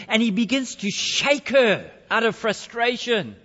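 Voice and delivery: high, loud, urgent storytelling; mounting frustration. A narrator's reading. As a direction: drive the story up to breaking point. Story climax, father snaps.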